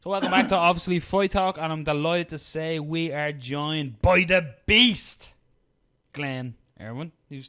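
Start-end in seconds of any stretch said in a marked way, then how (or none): 0.0-5.3 higher-pitched podcast welcome, drawing out the guest's nickname; show host intro. Acted. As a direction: announce the guest, slowing into a big nickname.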